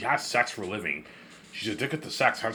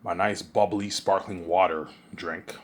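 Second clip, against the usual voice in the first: talking while eating; words round a bite of food; mouth full; 3 semitones lower, slower than usual. Real, not acted. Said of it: "I sound weird 'cause I'm eating food".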